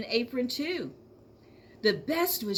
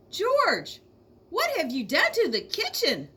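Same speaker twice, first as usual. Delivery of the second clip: scolding mother; 7 semitones higher, 4 dB louder than usual. A narrator's reading. Angry mother scolds George.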